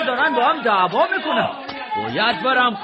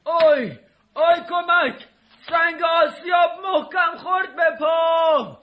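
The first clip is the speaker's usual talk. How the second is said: crying for help; 2 semitones higher, slower than usual. Acted. Hero crying out in pain after the stone crushed his foot. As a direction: yell in pain, calling for rescue.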